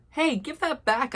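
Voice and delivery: shout. A narrator's reading. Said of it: "I shout".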